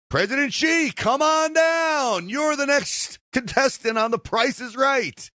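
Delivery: high, drawn-out contestant call; game show announcer. Acted. Host summons President Xi as the next contestant, hammed-up announcer call.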